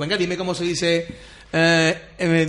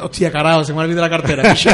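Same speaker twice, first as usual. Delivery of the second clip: mock Sevillian; 7 dB louder than usual. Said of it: "invíteme una copa en sevillano".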